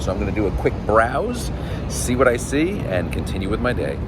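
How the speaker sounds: stuffy nose from a cold; nasal, blocked-up voice with a cold. Real, not acted. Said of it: "pardon my nasal sounding voice".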